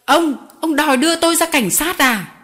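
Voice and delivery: high, loud indignant yell; outraged shout. Acted. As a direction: shout as he jumps up. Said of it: "Garofoli thét lớn".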